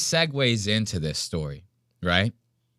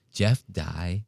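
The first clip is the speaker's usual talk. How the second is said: softer, slower gossip hush; mock hushed gossip; 7 semitones lower, 7 dB quieter, slower than usual. Mimicking Ben whispering Jeff's news. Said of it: "he's even whispering it".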